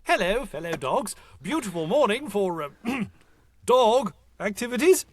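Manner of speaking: high, falsely friendly tiger; cheerful fake-innocent tiger. Tiger pretending to be dog.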